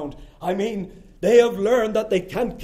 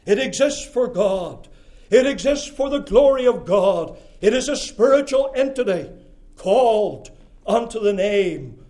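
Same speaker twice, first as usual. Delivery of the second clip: rising preaching; 6 dB louder than usual. Real, not acted. Preacher building to a climax.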